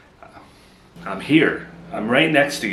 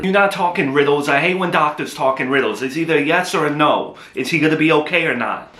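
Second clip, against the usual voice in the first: raised, higher angry voice at the doctor; husband loses patience and yells at the doctor for a yes or no; yelling at doctor; 5 semitones higher than usual. Acted. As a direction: demand a straight answer, voice up. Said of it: "please don't yell at the doctor".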